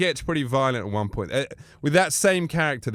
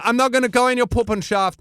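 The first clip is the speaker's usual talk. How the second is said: mock wary wrestler; 8 semitones higher, 3 dB louder than usual. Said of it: "he's going".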